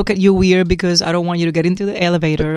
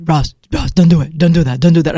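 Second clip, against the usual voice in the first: mock alarmed warning; 4 dB louder than usual. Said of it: "he freaks out".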